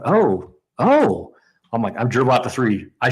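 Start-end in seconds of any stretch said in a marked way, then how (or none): 0.0-1.3 rising, louder crowd oh; crowd gasp. Retold or imitated. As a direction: swell like a crowd sensing the win. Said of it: "you're like".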